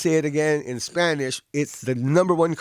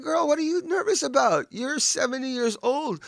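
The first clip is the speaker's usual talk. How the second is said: higher-pitched incredulous retort; mock exasperation; 8 semitones higher than usual. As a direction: playfully scold a nervous older student. Comic retold reply to nervous student.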